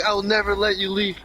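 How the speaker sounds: laughing menace. Retold or imitated. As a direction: giggle out a villain threat. Creepy Brian voiced in story.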